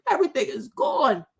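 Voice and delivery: ordinary talk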